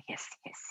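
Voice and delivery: unvoiced hiss; snake hiss. Talking about the enemy, a hissing snake sound.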